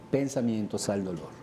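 ordinary talk

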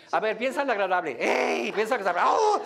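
playful mock excitement, quick at first; mock overeager coach. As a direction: parody a pushy facilitator with a laugh. Mocking an overeager facilitator.

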